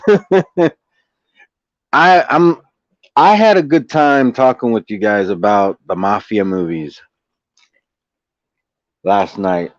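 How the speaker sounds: talking while eating lunch; words around a mouthful of food; chewing noisily. Real, not acted. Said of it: "I'm also eating my lunch".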